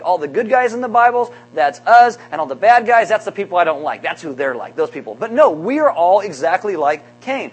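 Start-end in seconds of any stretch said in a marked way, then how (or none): 0.0-5.1 smug self-righteous. Retold or imitated. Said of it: "we think".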